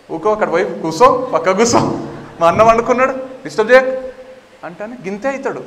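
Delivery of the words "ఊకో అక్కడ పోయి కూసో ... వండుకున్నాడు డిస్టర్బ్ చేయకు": dismissive scolding. Acted. Krishna shoos the shrunken monster away.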